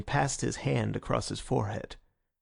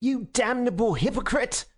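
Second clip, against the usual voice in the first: lifeless distinctness; 10 semitones higher than usual. Acted. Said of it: "automatic and lifeless distinctness".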